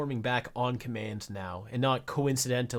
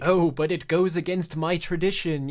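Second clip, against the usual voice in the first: sneering mock voice, higher and louder; mocking a bigot; 5 semitones higher, 4 dB louder than usual. Mocking homophobic viewers with a sneering, hammed-up whine. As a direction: parrot them as dumb as they sound. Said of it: "this is how fucking stupid y'all sound when you're like".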